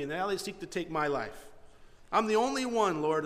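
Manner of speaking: lightly whiny complaint, rising on the self-pity; poor whiny voice. Acted. Elijah complains to the Lord in the cave, poor whiny voice. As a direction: plead your case with a mild, put-upon whine. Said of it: "this poor whiny voice".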